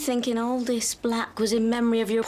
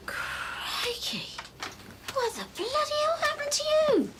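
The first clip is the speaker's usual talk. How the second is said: breathy gasp leaping into high-pitched disbelief; shocked; 4 dB quieter than usual. Acted. Friend walks in on Nesta's changed looks, shocked. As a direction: react aghast, voice shooting up.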